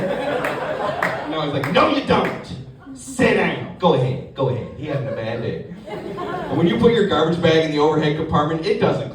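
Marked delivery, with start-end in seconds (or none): 1.7-5.7 mock agent. Agent voiced dismissing passenger.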